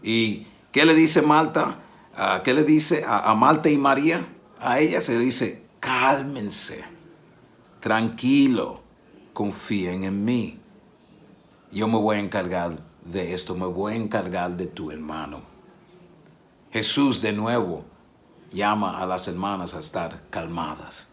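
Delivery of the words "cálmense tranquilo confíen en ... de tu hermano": calm reassurance. Retold or imitated. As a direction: promise them you'll handle it, calmly. Jesus calming Marta and María.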